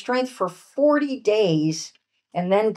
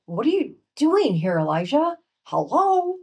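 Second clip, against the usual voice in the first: higher, impatient demand ending in a squeaky hello; stern demanding tone; 7 semitones higher than usual. Shown as a demonstration. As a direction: scold him like a brusque New Jersey voice. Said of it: "not a stern tone ... not like".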